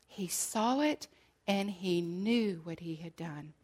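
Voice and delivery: hushed whisper. Acted. Preaching Peter's shame, whispered.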